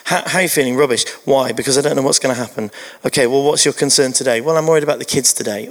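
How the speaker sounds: lightly acted glum question and answer; grumpy exchange. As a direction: retell a grumpy daily check-in, pitched a little down. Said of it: "when I say grumpy, it was like".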